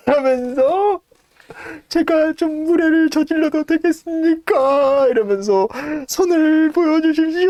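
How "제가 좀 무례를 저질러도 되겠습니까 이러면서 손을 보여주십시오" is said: put-on quavering elderly butler; trembling old servant. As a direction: ask it with shaking reverence. Old servant asks to see hand.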